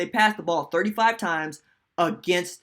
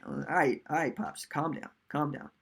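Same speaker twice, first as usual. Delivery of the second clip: lower, softer, backing-off tone; placating; 3 semitones lower, 8 dB quieter than usual. Retold or imitated. Son to his worked-up dad, quiet and placating. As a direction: gently talk an excited parent down.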